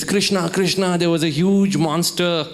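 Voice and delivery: a touch of retold panic; panicky. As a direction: blurt it out in mock alarm. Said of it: "he's all panicky".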